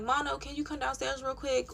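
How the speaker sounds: softly imitated casual call; polite request. How the housemate should have called her from the steps, politely. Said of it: "she didn't say, she didn't come to the steps like".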